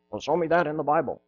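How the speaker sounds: fast, mocking nerdy voice. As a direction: imitate a snide little nerd. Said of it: "made a little nerdy voice".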